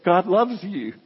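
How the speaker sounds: high, loud, eager offer of help; eagerly helpful. Acted. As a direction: act out someone rushing to help. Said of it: "to a lady that was".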